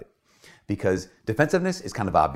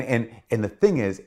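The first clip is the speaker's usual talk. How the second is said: normal talking voice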